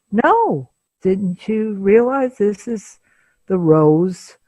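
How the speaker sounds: high, insistent feigned innocence; lightly voiced husband, feigned surprise; mock innocent husband. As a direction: play the smooth liar brushing it off. Husband gaslighting, voiced quote.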